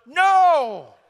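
loud, high group yell; the whole class yells him down; class shouting no. Retold or imitated.

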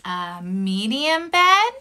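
animated read-aloud with gasps and dramatic pauses; storytelling for children. A narrator's reading. Teacher reads story to kids.

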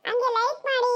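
put-on high little-kid voice; child's voice. Child asks the viewers for likes, high child voice. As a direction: pipe up like a small child.

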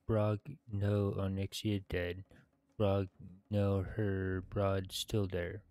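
steady storyteller read of the quest text; quest text read-aloud. Acted. Gamer reading quest completion text, storybook style. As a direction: narrate the ogre's thanks like a tale.

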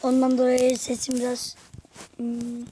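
talking while chewing gum; words round a piece of gum. Real, not acted. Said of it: "sakız çiğniyorum".

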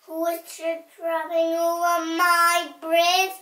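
loud, booming troll demand; troll challenge. A narrator's reading. Troll confronting littlest goat on bridge, loud challenge. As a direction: call it out, swelling on the bridge.

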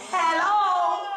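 drawn-out, questioning phone greeting; hammed-up telephone hello; answering the phone. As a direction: stretch it out as if picking up a call.

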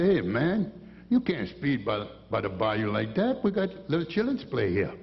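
lightly voiced Cajun deputy scolding a speeder. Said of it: "They all talk like that".

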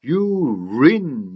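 "You rin" with the R riding onto "in"; linked R. Shown as a demonstration. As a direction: glide "You" straight into "rin". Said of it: "이렇게 되겠죠".

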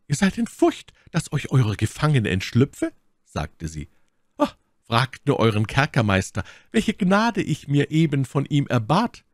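high, pained cry of never; lady's anguished refusal. A narrator's reading. My Lady voiced by narrator. (My Lady weigert sich verzweifelt, hoch und laut)

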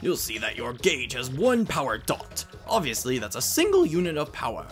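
lightly voiced tutor, measured with lilting emphasis; theatrical tutorial voice, checking they follow; lecturing professor. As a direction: teach each point deliberately, like a professor.

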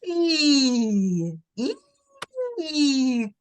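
a whinnying, sung I; horse neigh on I. Shown as a demonstration. Teacher imitates the rocking horse saying I. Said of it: "знаєш, як? Отак от".

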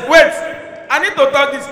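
usual speaking voice

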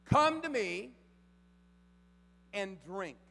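high, loud invitation; loud call. Acted. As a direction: call out as Jesus. Quoting Jesus loudly.

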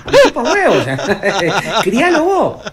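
rising, exasperated protest; unwilling bystander. Acted. Stranger refusing to back the mother, mounting exasperation. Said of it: "me imagino al señor diciendo".

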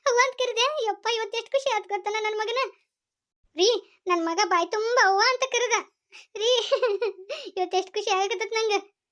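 high, rising, breathless delight; overjoyed. Acted. Mother telling her husband her son called her mother, overjoyed. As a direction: marvel at it with a lifted voice.

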